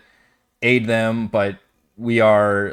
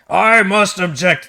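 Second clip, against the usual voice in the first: indignant objection; 11 semitones higher, 8 dB louder, slower than usual. Acted. Bakaris protests the council's decision.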